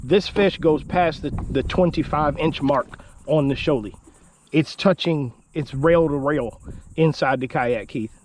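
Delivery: losing his voice, hoarse; slightly hoarse after shouting. Real, not acted. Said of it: "I'm losing my voice a little bit".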